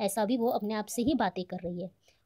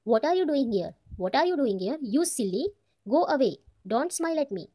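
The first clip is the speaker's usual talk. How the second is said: angry; 3 semitones higher, 3 dB louder, much slower than usual. Acted. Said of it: "बोल रही है वो भड़क के".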